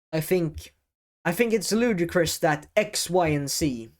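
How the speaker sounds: measured demo with pauses and weighted words; pause, then land each key word; deliberate pauses. Shown as a demonstration. Coach showing good speaking skills, deliberate pauses. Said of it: "And now, speaking skills".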